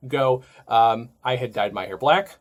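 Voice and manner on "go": louder, imitating a crew member calling out to the extras; mock shout across a crowded set; casting call. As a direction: call the goths to set like an assistant director. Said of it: "heard the same call and said".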